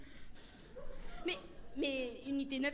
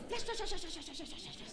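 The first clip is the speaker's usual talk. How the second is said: flashing lights; 3 semitones higher, 7 dB quieter than usual. Retold or imitated. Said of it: "m'écrivent des phrases complètes".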